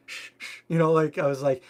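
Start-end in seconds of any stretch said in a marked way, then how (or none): 0.1-0.6 whispered urgent shush; hushing whisper. Retold or imitated. Hushing excited fans at the checkout, whispered. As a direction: hush them quietly so nobody notices.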